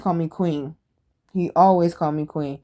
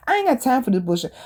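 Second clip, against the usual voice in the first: mildly fed-up, fast and higher; retold snapping; 5 semitones higher, faster than usual. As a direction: act out losing patience, without shouting. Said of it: "then I end up snapping".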